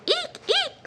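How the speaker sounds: squeaky shoe. Shown as a demonstration. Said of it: "like a squeaky shoe".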